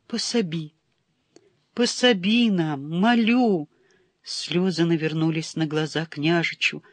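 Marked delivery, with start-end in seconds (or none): 0.1-0.7 quiet trembling plea; soft plea. Acted. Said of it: "зашептал дрожащим от волнения голосом". 1.7-3.7 higher, louder desperate plea. Acted. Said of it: "зашептал дрожащим от волнения голосом".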